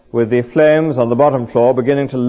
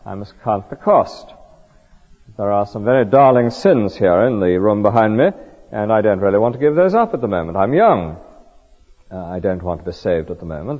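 lightly acted reserved skeptic, lower and measured; drawn-up, aloof refusal; 4 semitones lower than usual. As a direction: politely put off the rescuer with mild self-importance. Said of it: "you draw yourself and you say".

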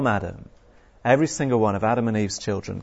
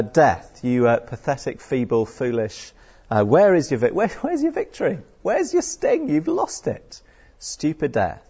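mock taunt; 2 semitones higher than usual. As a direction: jeer at death like a playground bully. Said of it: "it's us saying that to death".

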